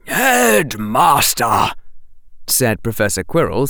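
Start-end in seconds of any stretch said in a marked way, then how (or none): 0.1-1.7 shocked. Acted. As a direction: stop him short, scandalised. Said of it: "sounding genuinely shocked".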